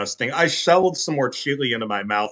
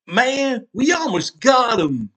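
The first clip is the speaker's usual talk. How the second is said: excited shout; 10 semitones higher, slower than usual. A narrator's reading. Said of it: "Carl said".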